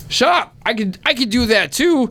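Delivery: high shrieking hag. Acted. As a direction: screech like a jealous hag. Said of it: "the hag is like".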